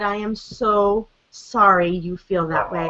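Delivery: retold gentle apology to a child; mildly tender, sincere reassurance; comforting. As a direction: console a hurting child, understated. Mother comforting her crying son, retold.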